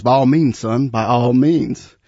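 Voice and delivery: eager reply that slows on the repeat; lightly voiced eager pastor. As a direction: gladly grant it, stretching the second by all means. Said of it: "the pastor eagerly replies".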